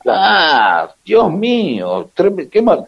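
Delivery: usual speaking voice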